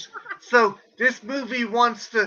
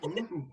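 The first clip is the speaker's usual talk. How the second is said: soft mock ooh; 5 semitones lower, 11 dB quieter than usual. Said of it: "you were like".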